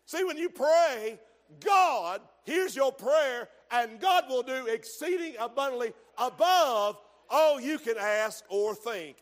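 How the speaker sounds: loud, rising preacher's cry; shouted sermon climax; preaching at full force. Acted. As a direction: drive it home to the congregation.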